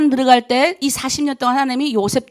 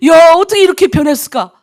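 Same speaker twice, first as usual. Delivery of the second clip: amazed exclamation; 3 semitones higher, 8 dB louder than usual. Retold or imitated. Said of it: "그럼 나도 놀래".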